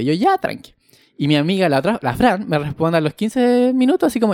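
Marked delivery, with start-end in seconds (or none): 0.1-0.7 relieved reply. Retold or imitated.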